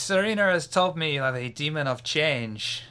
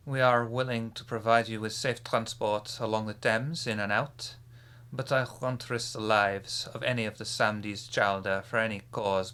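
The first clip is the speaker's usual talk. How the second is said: put-on French accent. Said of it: "my terrible accent".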